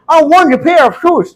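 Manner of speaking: high, slow, puffed-up British English; mock posh British accent; put-on British accent. Shown as a demonstration. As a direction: overdo the native British sound. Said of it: "कोई जरूरी नहीं इसी तरीके से बोल".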